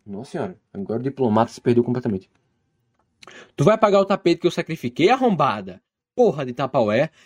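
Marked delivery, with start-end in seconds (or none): 3.5-7.1 angry retort. Acted. Retake of angry reply.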